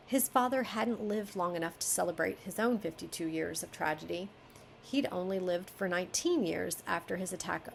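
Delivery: even reading voice; story narration. Acted. Editor reading the passage to the author, story narration. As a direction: read the paragraph through as prose. Reads manuscript aloud.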